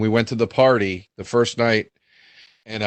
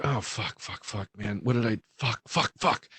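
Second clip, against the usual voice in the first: hushed panicked swearing under breath; soft, low retold panic; quiet panic; 3 semitones lower, 10 dB quieter than usual. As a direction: mutter it in dawning panic. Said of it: "I start panicking".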